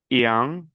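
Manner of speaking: "ian" with a nasal vowel ending. Shown as a demonstration. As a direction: say "ian" through the nose, no full n. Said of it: "este es nasal". ("ian" nasal, sin pronunciar la n)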